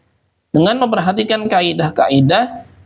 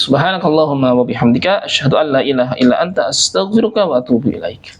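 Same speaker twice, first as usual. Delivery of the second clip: closing prayer recitation; 3 semitones lower, faster than usual. Acted.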